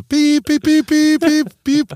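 high beeping like a bleep tone; beep censor sound. Acted. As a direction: bleep out the name. Censoring a name with beeps.

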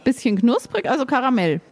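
talking with mouth full of chocolate; words round a bite of caramel. Real, not acted. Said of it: "red mit vollem Mund".

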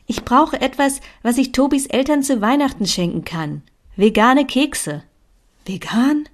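a hint of a determined friend rallying you; Lea pushing. Lea urges Katinka to bake cookies and make a plan, lightly voiced bossy friend. Lea's bossy pep talk.

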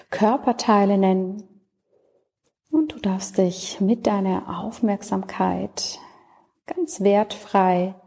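calm, unhurried Yoga Nidra voice with long pauses; settled, even meditation delivery, phrase by phrase; guided meditation. Acted. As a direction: guide the listener gently into rest, leaving space between phrases.

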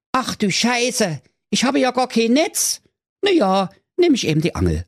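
cartoonish young prince answering his father; dopey prince. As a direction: play the obedient prince, a bit dim. Prince voiced in story.

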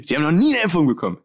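quick surprised question; astonished question. Retold or imitated. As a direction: blurt it out in disbelief. Doctor astonished, retold.

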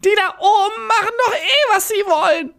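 sehr hohe, kichernd-jammernde Koboldstimme; hoch und weinerlich meckern wie ein alter Kobold; Kobold-Stimme. Acted. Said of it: "wie ich mir einen Kobold vorgestellt hab". (hohe, meckernde Koboldstimme)

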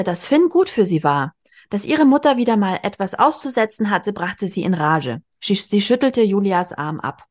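lively read-aloud with voiced characters; reading a novel aloud. A narrator's reading. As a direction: read the scene to your listener. Reads a novel passage aloud.

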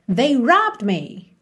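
slow, clear repeat of the model; teacher repeating the answer slowly. Shown as a demonstration. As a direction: say it again, unhurried. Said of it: "Como é que eu diria".

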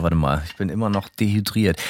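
talking between sips; speaking right after a gulp; while sipping a drink. Real, not acted. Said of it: "Da muss ich erstmal einen Schluck nehmen hier".

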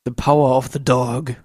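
dark, weighty movie-title read; deep voice. Acted. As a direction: read it like a film trailer. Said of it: "bitte mit tiefer Stimme vorlesen". (mit tiefer Stimme)

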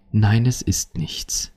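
slow denial fading to a whisper; hushed, drawn-out nothing's wrong; sulky denial. Acted. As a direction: deny anything's wrong, trailing into breath. Acted partner denying a problem.

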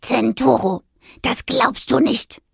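calling out, drawn-out indignation; mildly bawled complaint. A narrator's reading. Witch calling her cat into the hallway, mildly bawling. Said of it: "krakeelte Aurelia".

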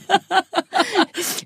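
high laugh. Real, not acted. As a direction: burst out laughing. Laughing at own story.

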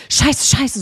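mock-grumble a repeated curse; mumbled grumbling. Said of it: "so genuschelt".

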